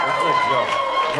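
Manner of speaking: very high, slow, airy squeak; squeaky mock voice. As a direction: squeak it out like a cartoon. Repeats it in a silly high voice.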